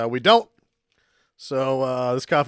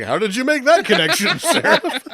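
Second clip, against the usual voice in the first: mock incredulous audience; 11 semitones higher, 7 dB louder than usual. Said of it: "everybody watching the movie is like".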